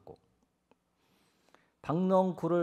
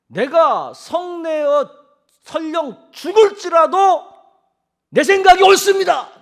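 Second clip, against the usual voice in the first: high, full-force defiant declaration; defiant shout; 13 semitones higher, 15 dB louder than usual. Acted. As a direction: shout back stubbornly, louder to the end. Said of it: "이렇게 얘기해요".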